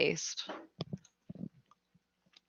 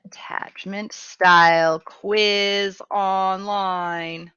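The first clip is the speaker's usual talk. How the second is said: slow whisper to herself; much slower than usual. Real, not acted. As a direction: whisper it slowly while typing. Muttering while typing a search.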